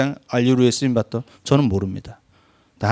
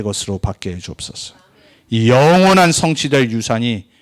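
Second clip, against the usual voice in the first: closing prayer. Acted. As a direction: lead the church in prayer. Pastor leads closing prayer.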